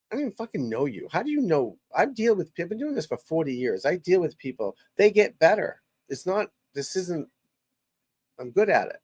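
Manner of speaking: indignant, pitch swinging up high; fed up, high-pitched protest; exasperated rant. Real, not acted. Coach answering online critics, exasperated.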